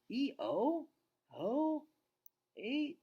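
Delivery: put-on girl's voice. Julia urges her dad to look, high girl voice. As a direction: pitch up into a girl pleading.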